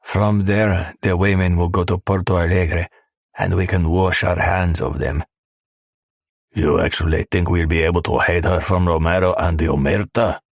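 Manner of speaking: lightly voiced gruff smuggler; a hint of a callous thug.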